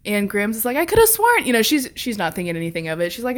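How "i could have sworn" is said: put-on high, puzzled old grandma.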